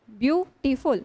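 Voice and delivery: ब्यूटीफुल with a short break after ब्यू; lightly split. Shown as a demonstration. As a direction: set ब्यू slightly apart in ब्यूटीफुल. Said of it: "कैसे बोलते हो आप".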